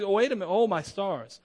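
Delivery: lightly voiced awed Abraham; humbled man before his judge; Abraham realizing.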